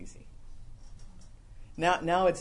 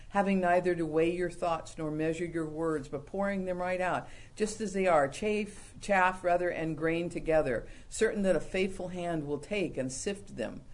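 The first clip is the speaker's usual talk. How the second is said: read-out quotation. Acted. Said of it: "One writer said".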